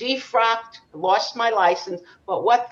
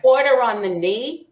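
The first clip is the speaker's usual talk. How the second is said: laughing through a naive guess; laughing mock guess; 4 semitones higher, 4 dB louder than usual. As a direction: play the innocent kid, giggling. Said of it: "I said".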